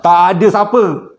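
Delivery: startled whisper-turned-cry; spooked. Retold or imitated. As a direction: gasp it out like you just saw nothing there. Turns to see empty mosque.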